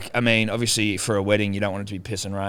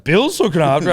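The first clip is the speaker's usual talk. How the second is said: higher, louder incredulous question; shocked disbelief; 9 semitones higher, 8 dB louder than usual. Retold or imitated. Guests stunned Dad is minding the baby, incredulous. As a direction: sound stunned that Bill is babysitting.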